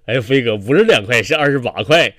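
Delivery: colleague's mock-earnest reply about the haircut; sincere. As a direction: answer in all honesty. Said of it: "他一脸真诚地跟我说".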